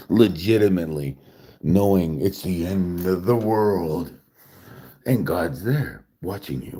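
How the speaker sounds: slow, grave narrator intoning about God; solemn storyteller voice. Pretend. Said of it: "should I stop talking like I'm a narrator".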